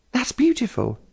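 just caught her breath; breathless. A narrator's reading. Sister admiring a painting, still catching her breath. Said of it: "she said when she could speak".

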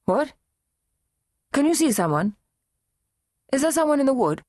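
a hint of the mother, uneasy; anxious mother. A narrator's reading. Mother peers at the wood.

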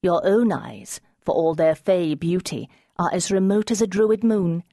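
dry. Acted. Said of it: "Amber said dryly".

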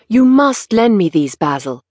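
calling out with keen delight; young man crying out eagerly; cried out. Acted. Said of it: "he cried".

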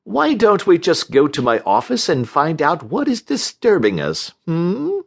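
patronizing soothing with lilting query. A narrator's reading. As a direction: coax as if to an upset child. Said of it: "Titus said soothingly".

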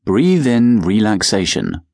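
slow calm mantra. Shown as a demonstration. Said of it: "say to yourself".

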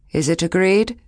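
Lan calls the whole village to agree. A narrator's reading. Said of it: "She raised her voice".

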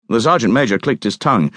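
usual speaking voice

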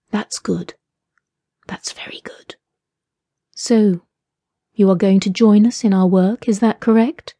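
hushed, whispered, patient menace; menacing captor. A narrator's reading. Captor coaxing the woman in hushed menace. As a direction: coax her like a cruel game master.

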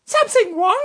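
mock English. Serge answering in English.

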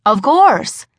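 quick eager lie, falling; bluffing with forced confidence; nervous fib. Acted. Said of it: "I lied again".

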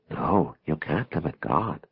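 slowly insist, leaning on each word of "you can't limit God"; slow, insistent echo of agreement; extra insistence. A narrator's reading. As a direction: agree emphatically, drawing out "No". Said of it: "with extra insistence in her voice".

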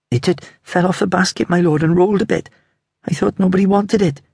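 put-on high, small boy's voice; piping child voice. Little boy explaining to the sergeant, high and piping. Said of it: "The piping voice was scarcely more than a whisper".

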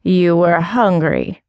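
slow, lightly voiced scornful old cat; echo with scorn. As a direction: throw her words back mockingly. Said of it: "echoed the cat, her expression dripping with scorn".

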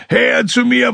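high, loud cry for help; screaming call from a sinking man; desperate shout. Acted. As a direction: yell across the water. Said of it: "tauchte auf und schrie".

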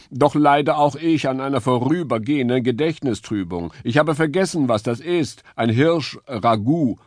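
lightly voiced noble deer; earnest stag. A narrator's reading. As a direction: play the dignified stag. Stag character voice.

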